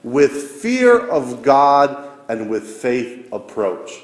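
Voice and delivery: slow, solemn liturgical intonation; priest intoning liturgy. Retold or imitated. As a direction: lift the words slowly like a priest at the altar. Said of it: "the priest raises the chalice and goes".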